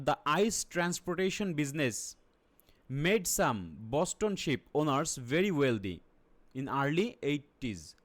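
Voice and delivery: very slow, word by word; teacher reading an English statement very slowly, piece by piece; broken-up reading. Shown as a demonstration. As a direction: read it out chunk by chunk for the class. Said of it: "ভেঙে ভেঙে একটু স্টেটমেন্টটা পড়ে নিই".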